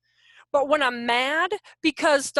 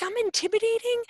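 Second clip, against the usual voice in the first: mock disbelief; 10 semitones higher than usual. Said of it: "I'm like".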